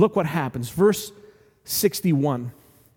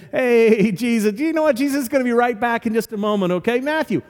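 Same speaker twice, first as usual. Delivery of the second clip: lightly voiced disciple talking him round; mild backstage manager coaxing the star; buddying disciple; 3 semitones higher, faster than usual. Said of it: "kinda put their arm around Jesus and say".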